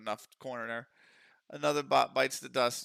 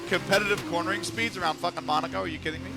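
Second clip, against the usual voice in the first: higher-pitched real disbelief; incredulous; 5 semitones higher than usual. Real, not acted. Streamer questioning the game's cornering target, incredulous.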